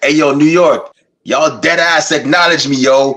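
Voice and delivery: put-on playful New York street accent. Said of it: "you gotta do it in the New York accent".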